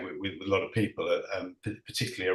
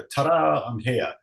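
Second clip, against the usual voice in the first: triumphant arrival; 5 semitones higher, 4 dB louder, slower than usual. Retold or imitated. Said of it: "almost like a".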